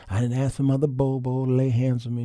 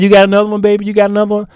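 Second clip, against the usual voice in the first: louder, higher eager question; eager wife; 8 semitones higher, 8 dB louder, much faster than usual. Retold or imitated. Wife asking her husband for another song, eager and loud. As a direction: egg him on for more. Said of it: "She said".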